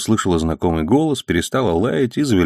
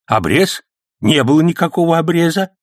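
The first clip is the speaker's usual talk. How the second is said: mildly frightened; 9 semitones higher than usual. A narrator's reading. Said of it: "испуганно заморгал глазами Сан Саныч".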